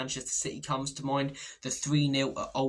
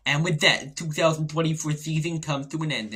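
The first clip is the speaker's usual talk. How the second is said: mock dramatic voiceover, louder; reel voiceover again; 2 semitones higher, 5 dB louder than usual. For the next reel in the feed, a hammed-up voiceover. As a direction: announce it like a trailer narrator. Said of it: "and you see".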